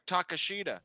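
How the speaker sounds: Takeshita as tah-kah-SHEE-tah; confident correction. Shown as a demonstration. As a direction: stress a long "shee" in Takeshita. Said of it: "I'm pretty sure it's, like".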